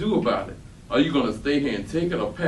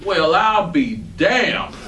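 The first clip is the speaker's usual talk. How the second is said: amazed; 3 semitones higher, 6 dB louder, much slower than usual. Acted. Amazed at Michael's news.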